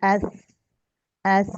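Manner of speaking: एस said crisp, no whistle; letter sound demo. Shown as a demonstration. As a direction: say एस cleanly without hiss. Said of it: "ए, इसको हम पढ़ते हैं". (एस बिना सीटी के)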